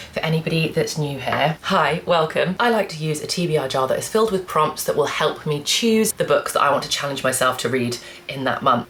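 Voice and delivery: ordinary delivery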